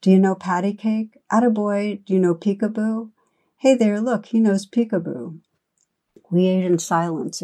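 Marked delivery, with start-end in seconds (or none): 0.0-5.4 lightly raised, higher calls across the room; mild mock shout. Narrator voicing the old man calling across the room, mild shout. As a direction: call out playfully to the baby. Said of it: "the old bum was shouting from across the room".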